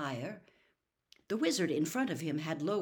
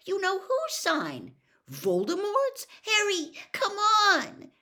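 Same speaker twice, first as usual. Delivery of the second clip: high, urgent wail building louder; frightened moan; 13 semitones higher, 7 dB louder, slower than usual. A narrator's reading. Hermione begs Harry to flee Voldemort's sign, frightened moan. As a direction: plead high and desperate, louder by the end. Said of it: "Hermione moaned, pulling him as hard as she could".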